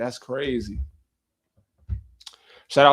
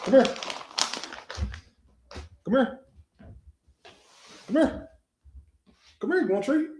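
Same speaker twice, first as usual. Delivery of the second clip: much higher, soft sing-song coaxing; squeaky pet-talk voice, softer; high-pitched dog voice; 11 semitones higher, 5 dB quieter than usual. Real, not acted. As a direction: sweet-talk the dog with a treat. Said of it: "talk to your dog in, like, a high-pitched voice".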